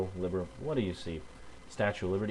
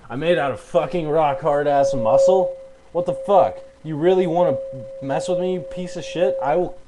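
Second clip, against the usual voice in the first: angry yelling; 4 semitones higher, 7 dB louder than usual. Real, not acted. Angry rant at a commenter.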